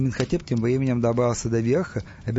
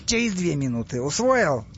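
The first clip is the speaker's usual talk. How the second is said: instructing; 3 semitones higher than usual. Acted. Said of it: "послушно переинструктировал нубийца".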